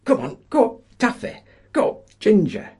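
high, loud call to ponies; calling out to horses. A narrator's reading. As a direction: urge the horses on, shouting. Men calling to pit ponies.

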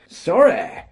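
loud, high, gleeful shout; elated shout. A narrator's reading. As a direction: shout it out, thrilled. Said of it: "shouted John Wamby, much elated".

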